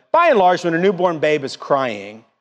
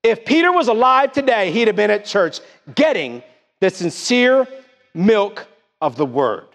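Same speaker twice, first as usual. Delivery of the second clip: full-force pulpit shout; preaching shout; 5 semitones higher than usual. Acted. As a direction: lift it to a shout on the point. Preacher peaks, shout heard.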